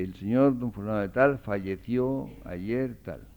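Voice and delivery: slow formal obituary wording; formal obituary read. Shown as a demonstration. Lecturer quoting a newspaper obituary, slow and formal. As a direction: read it like a death notice. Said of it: "La esquela dice".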